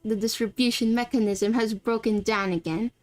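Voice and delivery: exasperated man in a put-on British accent; terrible British accent. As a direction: grumble in amateur British English. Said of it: "this is my terrible British accent".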